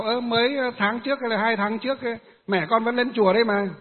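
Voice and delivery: half-surprised, reminding her; surprised question. Retold or imitated. Teacher questions the daughter, surprised.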